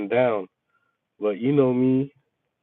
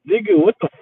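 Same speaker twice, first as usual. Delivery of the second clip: livid rant; 7 semitones higher, 3 dB louder, faster than usual. Retold or imitated. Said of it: "I was livid".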